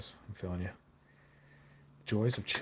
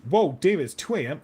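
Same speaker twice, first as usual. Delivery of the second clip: surprised exclamation; 8 semitones higher, 12 dB louder than usual. Real, not acted. Reading a late-night viewer's comment.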